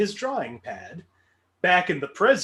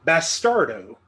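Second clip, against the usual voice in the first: Italian accent; 2 semitones lower, 3 dB louder than usual. Shown as a demonstration. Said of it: "That is my Italian accent for that".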